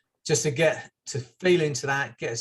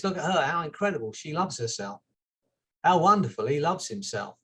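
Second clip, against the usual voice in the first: admiring. Shown as a demonstration. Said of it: "what we should be saying is".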